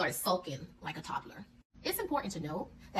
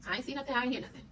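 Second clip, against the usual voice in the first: little son's denial; 5 semitones higher, faster than usual. Retold or imitated. Young son denies seeing anything.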